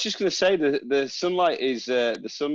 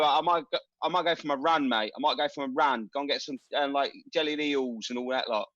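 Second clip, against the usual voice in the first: chatty mock-London accent; put-on London accent. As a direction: lay on the London accent, casual and matey. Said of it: "so Steve feels like he's at home".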